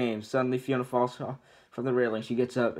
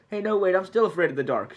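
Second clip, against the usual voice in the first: scared realisation; 7 semitones higher, 5 dB louder than usual. Acted. Donkey realises he's still scared.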